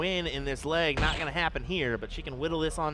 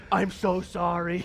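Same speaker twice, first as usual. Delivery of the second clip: laughing apology; 3 semitones higher, 3 dB louder than usual. Retold or imitated. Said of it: "Got really scared".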